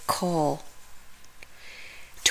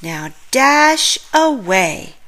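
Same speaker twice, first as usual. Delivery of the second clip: loud, higher jolly call; shout; 5 semitones higher, 5 dB louder than usual. A narrator's reading. Santa shouting to his reindeer to fly off. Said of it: "Santa shouts".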